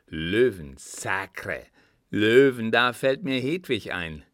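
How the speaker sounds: loud, excited outburst; excited exclamation. Acted. Kunz suddenly remembers Hedwig, loudly excited.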